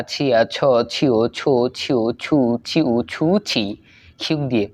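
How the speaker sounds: syllable-by-syllable recitation, evenly spaced; reading drill. Shown as a demonstration. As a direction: read out the syllable chart in a steady rhythm. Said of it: "একই রকম হবে". (বানান পড়ার মতো ছন্দে ছন্দে পড়া)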